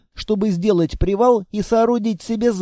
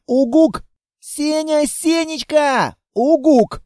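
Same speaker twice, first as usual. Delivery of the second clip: higher, slow, tearful cry for Senya; sobbing girl; 8 semitones higher, slower than usual. Acted. The shocked girl calls to the monster, crying. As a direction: call him through tears.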